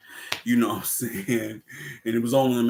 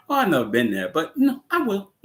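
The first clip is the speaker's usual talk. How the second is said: higher, teasing reply; mock villain voice; 8 semitones higher, 3 dB louder, faster than usual. Villain mocking Carter's home, higher mock voice. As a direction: tease him in a high voice.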